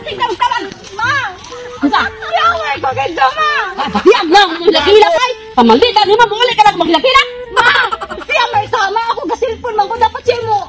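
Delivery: put-on whiny child. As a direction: complain to mama like a little kid. Child tattling to mama.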